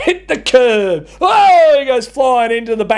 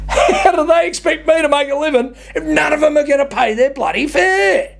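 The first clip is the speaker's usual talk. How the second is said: high, laughing complaint; laughing rant; 6 semitones higher than usual. Real, not acted. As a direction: laugh through the grievance.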